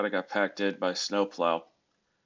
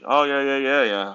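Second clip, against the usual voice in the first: quick run of yeahs, a little higher and louder; mildly excited retold reply; eager agreement; 5 semitones higher, 5 dB louder than usual. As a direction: imitate someone lighting up in recognition. Acting out the man's eager confirmation.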